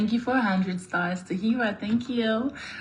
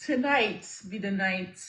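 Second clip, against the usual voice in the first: usual speaking voice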